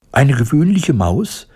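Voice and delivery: high, affronted mouse squeak, rising question; indignant squeak. A narrator's reading. Mouse echoing the woodcutter's slight, indignant squeak. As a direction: squeak it back in offence. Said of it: "piepste das Tierchen empört".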